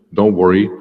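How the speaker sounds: ordinary delivery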